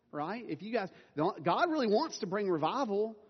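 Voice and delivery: mock scolding. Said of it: "I could just get up here and, like, scold you".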